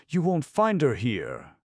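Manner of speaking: high, loud brush-off; sharp refusal. Acted. Aunt refusing the stranger, sharp high denial. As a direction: shut him out with a snap. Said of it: "my aunt replied".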